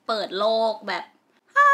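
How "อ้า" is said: high, loud "aah" of mock revelation; awed gasp. Girl showing her wonder at a co-ed school, awed gasp. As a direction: imitate a world-opening "aah". Acting out eye-opening amazement.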